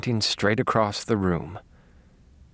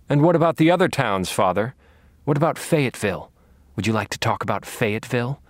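taunting; faster than usual. Acted. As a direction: press him with sly mockery. Taunting the captive priest.

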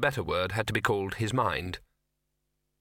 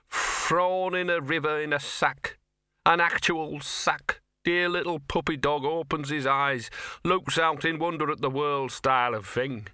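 higher, slow, sorry-for-himself mutt; self-pitying dog; 4 semitones higher, slower than usual. Acted. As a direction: wallow in self-pity, slowly. Gaspode self-pitying tale.

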